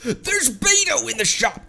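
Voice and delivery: very high-pitched excited cry; excited squeal. Real, not acted. Player spots a favourite in the shop, excited squeal. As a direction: squeal it out in sudden delight.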